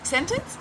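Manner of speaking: exaggerated Aussie rise on "sentence"; big rising tune. Shown as a demonstration. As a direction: fling "sentence" way up like a question. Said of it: "with a rise at the end of her".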